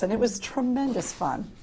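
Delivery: dry dig with a lift in pitch on tremendous fun; a little sarcastic. Real, not acted. Panelist joking about six years on that board, lightly sarcastic. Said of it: "I'm being a little sarcastic".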